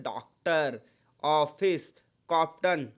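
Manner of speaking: डॉक्टर with a rounded open ऑ; ऑफिस, कॉप्टन with a round ऑ; English loan vowel. Shown as a demonstration. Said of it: "एक और pronunciation". (ऑ का गोल उच्चारण)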